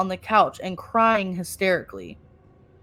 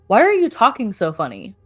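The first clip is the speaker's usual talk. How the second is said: yelling; 5 dB louder than usual. Retold or imitated. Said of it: "yelled out to the voice".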